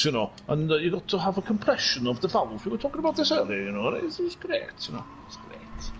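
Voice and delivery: chatty Welsh race commentary; Welsh accent. Pretend. Commentator describing Phil's fight, Welsh accent. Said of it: "this is an accent I've been doing".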